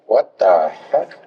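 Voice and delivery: low, slow, puzzled mock response; baffled reaction. Colleagues puzzled by his friendliness, slow and baffled. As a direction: draw it out low, put off by a stranger. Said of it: "they may be like".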